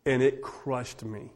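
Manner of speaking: ordinary talk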